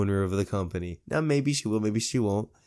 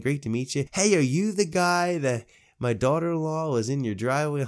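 lightly voiced cheery older boss, a bit higher; outgoing old owner; 5 semitones higher than usual. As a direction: greet him like an eager host. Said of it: "he's very outgoing".

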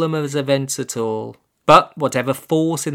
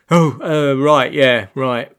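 flustered burble; 5 dB louder, slower than usual. Acted. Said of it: "burbled Olaf, obviously disturbed".

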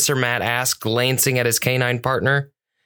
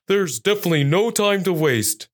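higher-pitched, urgent police dog voice; Bear; 5 semitones higher than usual. A narrator's reading. Police dog urging the others on, higher urgent voice. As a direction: put on an eager dog officer, voice lifted. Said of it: "Bear said".

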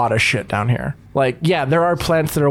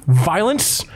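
gruff huffing badger; 5 semitones higher than usual. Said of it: "talking in weird badger voice".

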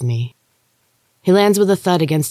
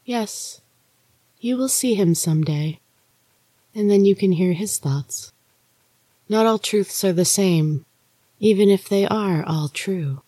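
Maria's ghostly voice; 5 semitones higher than usual. Acted. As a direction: lift it and soften it, an eerie sister warning. Maria speaks in the story.

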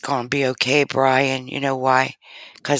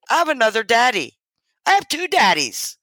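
retold crying; 10 semitones higher, faster than usual. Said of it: "fell in his arms crying".

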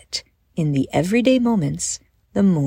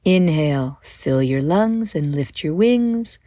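calm, measured guided-visualization voice; unhurried guide easing them into a daydream; guided meditation. Acted. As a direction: lead listeners gently through breath and imagery, with pauses.

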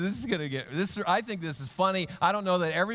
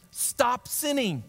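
slow stern; 6 semitones higher, much slower than usual. Retold or imitated. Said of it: "Jesus says to him".

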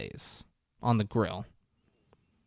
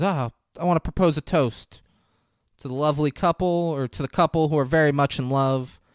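lightly acted toast, pitched up; 5 semitones higher, 5 dB louder than usual. Dad toasts the couple in love, proposing a toast. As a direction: raise the voice to address the table.

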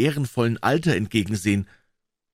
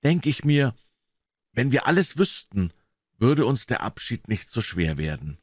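great sadness; 4 semitones higher than usual. Acted. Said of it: "fügte er mit großer Traurigkeit hinzu".

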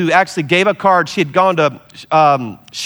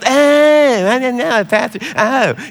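surprised realization; 7 semitones higher, slower than usual. Retold or imitated. Seatmate realizes he's a pastor.

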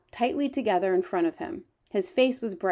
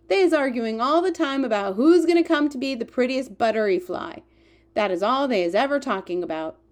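higher-pitched storybook giant with quaint grammar; lively, raised giant character voice; eager, boastful giant; 4 semitones higher, 6 dB louder than usual. Acted. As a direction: play the friendly giant, proud of his hearing. The giant's lines in a read story.

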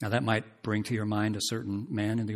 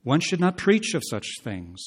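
mocking quote; 5 semitones higher, 4 dB louder than usual. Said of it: "thus they preach".

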